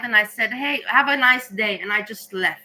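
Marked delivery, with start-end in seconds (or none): 0.5-1.8 smiling reply. Retold or imitated. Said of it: "I smiled".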